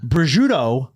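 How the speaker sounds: Prosciutto with an American accent, all letters spoken; said very whitely. Shown as a demonstration. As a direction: say Prosciutto plainly American but complete. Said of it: "said very whitely".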